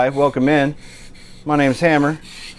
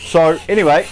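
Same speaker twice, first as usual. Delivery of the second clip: cheeky put-on London accent; American playfully faking a London accent; 2 semitones higher, 5 dB quieter than usual. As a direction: chat in an amateur London accent. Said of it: "It's just a bit cheeky fun".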